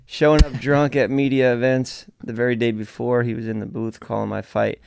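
lightly done Irish accent, mocking Connor; a hint of Irish brogue, reading out Connor's jab at Cormier. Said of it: "I can't help but do the Irish accent".

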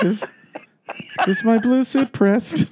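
high, slow diva calling to her maid; a hammed-up star asking if the blue suit is pressed; mock diva. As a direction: call out like a grand star to the help.

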